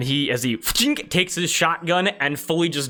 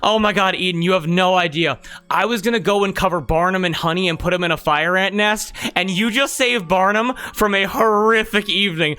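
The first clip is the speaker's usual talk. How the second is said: louder, higher proud gushing; gushing Slash Claw; 5 semitones higher, 3 dB louder than usual. Acted. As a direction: overflow with pride at her. Slash Claw praising Eden.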